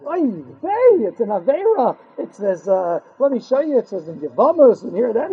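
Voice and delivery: hammy shock and citing sources; mock frum boy. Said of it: "You say".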